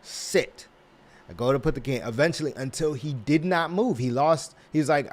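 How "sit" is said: whispered command. Acted. Training cat to sit.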